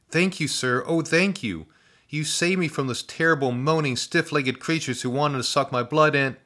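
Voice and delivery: put-on breathless eager boy; grateful boy. A narrator's reading. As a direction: pour out thanks in a boy's voice. Grateful rescued boy speaks.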